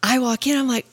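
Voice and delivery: ordinary talk, nothing marked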